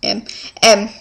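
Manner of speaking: talking through a yawn; mid-yawn, drawn out. Real, not acted. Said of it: "sorry, I'm gonna yawn".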